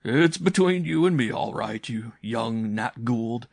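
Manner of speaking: loud, lifted teasing voice, slowing at the end; hint of amusement as the uncle humours the boy; mildly laughing uncle. A narrator's reading. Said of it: "he said, laughing".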